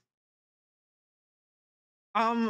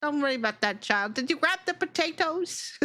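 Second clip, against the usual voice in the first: a higher, dismissive mom brushing it off; breezy parent voice; 5 semitones higher than usual. Acted. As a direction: wave the kid's worry away and move on. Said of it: "and they're like".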